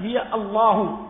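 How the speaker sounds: الله said as الله-هو with the final ha rounded to u; with damma. Shown as a demonstration. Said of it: "بضم لفظ الجلالة".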